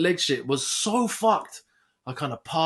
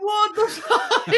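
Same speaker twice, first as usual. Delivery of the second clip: high, slow, incredulous what the fuck; shocked disbelief; slower than usual. Retold or imitated. Reacting to the masseuse's offer, high and shocked. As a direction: act floored by the offer.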